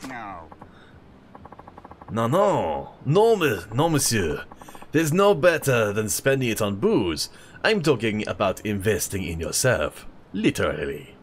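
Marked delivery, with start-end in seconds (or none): 2.1-11.1 put-on French accent. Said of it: "how to do an old French accent".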